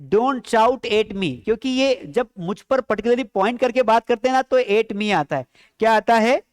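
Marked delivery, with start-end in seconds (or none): 0.0-1.4 very slow, word by word, for the class; slow model sentence. Shown as a demonstration. Teacher dictating an English sentence to students, very slowly. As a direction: spell each English word out slowly for learners. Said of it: "क्या बोलोगे?".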